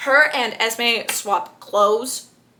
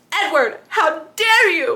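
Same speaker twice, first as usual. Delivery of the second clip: staged theatrical yell, drawn-out and high; 7 semitones higher, 3 dB louder than usual. Retelling a scene as Bella walks to the door with Edward: Bella's yell. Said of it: "She yells".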